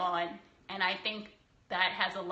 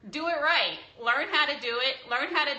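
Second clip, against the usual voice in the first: louder and higher, a sharp stop order; annoyed outburst; 4 semitones higher, 4 dB louder than usual. Real, not acted. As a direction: scold bakers firmly. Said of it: "I'm a little pissy right now".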